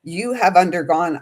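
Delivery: slow, measured oracle voice with pauses; channeled message reading. Acted. To her viewers, reading out a channeled message, slow and solemn. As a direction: intone it like a message from spirit.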